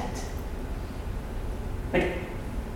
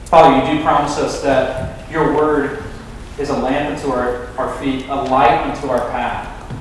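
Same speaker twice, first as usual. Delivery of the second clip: low-key, subdued public prayer; 4 semitones lower, 3 dB quieter than usual. Real, not acted. Preacher prays to the Father after the sermon, subdued prayer. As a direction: pray aloud gently, falling softer and lower toward the amen.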